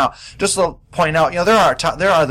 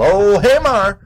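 high, loud "hey" at the dog; calling the dog; 8 semitones higher, 6 dB louder, much slower than usual. Real, not acted. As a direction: snap the dog's name out. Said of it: "So I had to give him a little".

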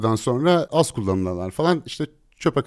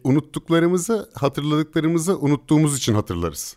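slow, drawn-out and higher; slow motion; 7 semitones higher, 4 dB louder than usual. Shown as a demonstration. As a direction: spell it out word by word, slowly. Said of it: "bunu ağır çekimde bir kez daha". (ağır çekimde, yavaş yavaş)

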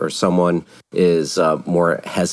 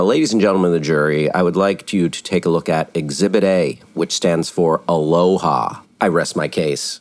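passionate closing argument; 2 semitones lower than usual. Pretend. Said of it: "if I was Disney's lawyer".

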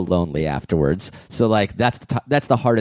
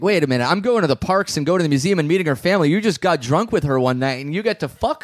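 raised pitch, acting out the wronged boyfriend; mock-aggrieved, higher voice; indignant protest; 6 semitones higher than usual. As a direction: protest the unfairness as him. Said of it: "where it's like".

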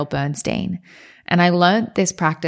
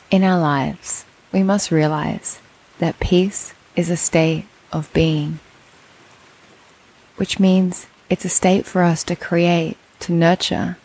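meditation teacher, long pauses between phrases; measured, spacious meditation voice; guided meditation. Acted. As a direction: guide them into stillness, one phrase at a time.

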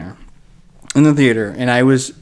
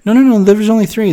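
emphatic denial; 9 semitones higher, 6 dB louder than usual. Retold or imitated. Arguing with brother about sequels.

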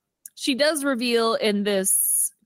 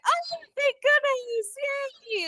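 mock relieved coworkers. Office crowd relieved.

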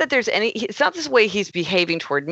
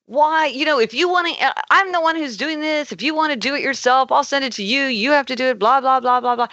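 irate; 7 semitones higher than usual. Retold or imitated. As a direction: let the exasperation spill out, much higher. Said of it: "I would have been very irate".

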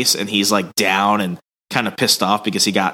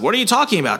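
confused Valance; 11 semitones higher, much faster than usual. Retold or imitated. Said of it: "Valance is like".

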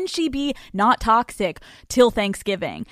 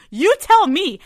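mock rant; 8 semitones higher, 6 dB louder than usual. Ranting at therapist.

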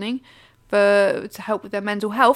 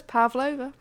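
Australian accent. Shown as a demonstration. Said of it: "It's one of those words".

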